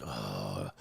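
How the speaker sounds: a flat unimpressed uh; deep bored grunt. Retold or imitated. Men shrugging at women, low bored grunt. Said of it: "we just gonna be like".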